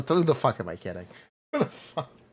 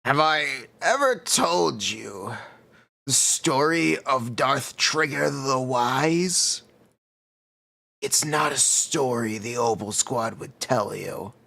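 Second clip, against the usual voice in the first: Star Wars impression. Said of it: "To a Star Wars impression".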